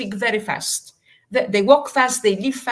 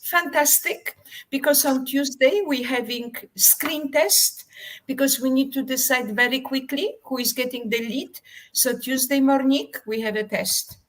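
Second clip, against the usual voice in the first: director's voice; 4 semitones higher than usual. Retold or imitated. Director voiced in retold story.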